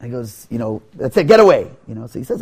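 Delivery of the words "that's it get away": dismissive snap. Acted. Innkeeper sends them away.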